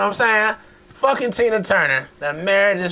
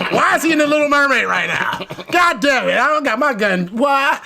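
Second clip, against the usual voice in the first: mock panicked yell; 6 semitones higher than usual. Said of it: "I be like".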